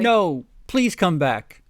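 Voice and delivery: high, slow, pleading mock drama; hammed-up plea. Reading Draco begging her to stay, high slow hammed-up plea. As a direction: beg like a soap opera heartbreak.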